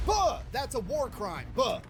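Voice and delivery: mock a whining objector from the comment section; outraged internet commenter. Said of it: "I get this in the comment section".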